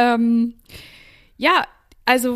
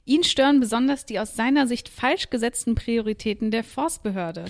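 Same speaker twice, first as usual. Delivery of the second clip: news report. Acted.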